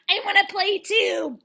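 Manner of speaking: high, slow, drawn-out plea; mock childlike eagerness. Contestant wanting into the pillow fight, mock eager. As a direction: beg to join in, high and stretched.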